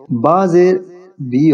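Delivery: با زیر بی with clear short i on bi; correct letter sound. Shown as a demonstration. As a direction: spell out با زیر as bi. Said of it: "با کے نیچے جب کسر آئے گی". (صحیح تلفظ بی)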